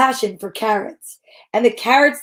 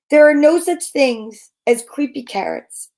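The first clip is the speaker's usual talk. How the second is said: dismissive mom. Acted. Mom dismissing her son's fears, firm. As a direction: set it straight like a sure mother. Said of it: "Mom said, shaking her head".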